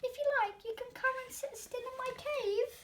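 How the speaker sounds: a shy creature forcing a brave offer; trying to sound brave. Acted. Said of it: "he tried to sound brave".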